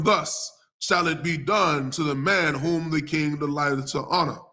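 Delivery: measured pulpit read-aloud; scripture reading. Acted. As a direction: proclaim the verse, drawing out the key words.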